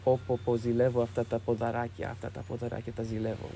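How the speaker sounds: softly voiced sweet fondness; sweet, tender. Saint admiring Costa's legs, sweet and tender. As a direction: say it softly, with gentle affection. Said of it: "he said in this sweet way".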